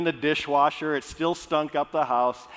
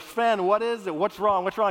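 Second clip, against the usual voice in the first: upset friend; 4 semitones higher than usual. Acted. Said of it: "Oli's just upset".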